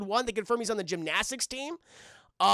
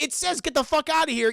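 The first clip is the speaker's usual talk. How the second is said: higher, protesting cartoon slacker; lightly voiced, pitched-up complaint; Shaggy; 6 semitones higher than usual. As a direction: object as the goofy sidekick. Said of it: "And Shaggy's like".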